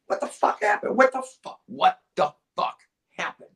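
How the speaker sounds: high, loud disbelief; incredulous outcry. Real, not acted. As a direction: yelp it in disbelief. Outraged at the loss.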